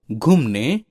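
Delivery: घूमने with a short u; mispronounced word. Shown as a demonstration. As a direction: say घूमने as 'ghumne', u kept short. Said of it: "शब्दों की वर्तनी अशुद्ध है". (घूमने का गलत उच्चारण 'घुमने')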